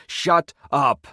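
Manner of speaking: high, loud, furious scream. A narrator's reading. Narrator screams at the old prisoner, furious loud scream. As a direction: snap him silent. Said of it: "I screamed at the old man".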